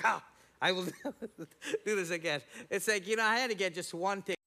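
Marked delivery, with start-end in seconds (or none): 0.0-2.4 a sheepish laugh breaking into the promise; laughing vow. Retold or imitated. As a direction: promise again but chuckle, not meaning it. Same vow three weeks later.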